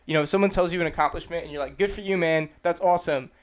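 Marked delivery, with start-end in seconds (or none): 1.8-3.3 meaning it. Shown as a demonstration. Replying to someone's accomplishment, sincerely pleased. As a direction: sound like you really mean the praise. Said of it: "make it sound like you mean it".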